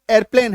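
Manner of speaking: 'एयरप्लेन' with a merged first syllable, "er-plen"; corrected 'एयरप्लेन'. Shown as a demonstration. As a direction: run the start of एयरप्लेन together as "er". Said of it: "actually में ये". (सुधारा हुआ उच्चारण, 'एयरप्लेन' को "एरप्लेन")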